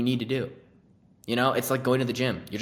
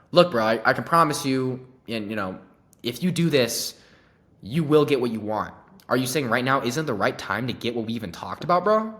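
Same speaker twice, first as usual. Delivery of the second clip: louder, pushy, confrontational sales pitch; pushy, aggressive close; 6 dB louder than usual. Shown as a demonstration. Salesman pushes a hesitant prospect too hard, loud and aggressive. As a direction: press the prospect hard, a bit of a dick. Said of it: "You don't have to be a dick about it".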